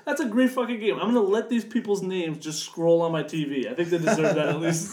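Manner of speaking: big earnest gaming fan; emphatic praise. Retold or imitated. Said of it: "I'm like".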